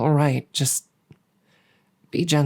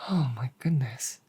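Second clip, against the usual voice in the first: soft, breathy-free hush of relief; relieved whisper; 5 dB quieter than usual. Acted. Dragon relieved as his mate peels the skin, whispering.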